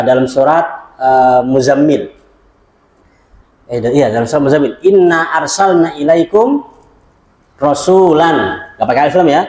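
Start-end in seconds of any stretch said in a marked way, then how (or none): 4.8-8.6 slow, measured verse recital; Quran recitation. Acted. Teacher citing Surah Muzammil to students, slow recital.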